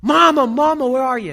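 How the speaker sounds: imitated lost child's high, loud call; screaming for mama. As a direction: call down the aisle for your missing mom. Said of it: "and now he's screaming".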